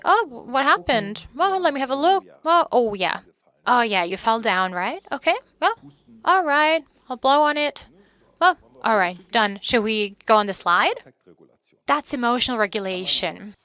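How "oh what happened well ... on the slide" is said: put-on comforting a child. Shown as a demonstration. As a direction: cheer up the fallen toddler. Comforting a child who fell.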